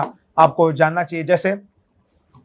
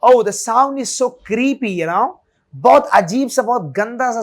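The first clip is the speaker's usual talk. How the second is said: slow complaint; 2 semitones higher than usual. Shown as a demonstration. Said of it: "then you can say that".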